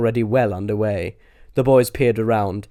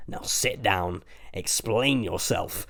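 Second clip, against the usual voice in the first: demanding; 2 semitones lower, 6 dB quieter, slower than usual. A narrator's reading. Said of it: "demanded Milton".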